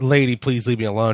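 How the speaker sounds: ordinary talk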